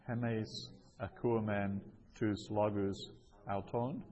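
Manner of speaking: careful model reading with pauses; phrase-by-phrase reading. Shown as a demonstration. Teacher repeats the example for learners, phrase by phrase. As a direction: set each Greek chunk apart.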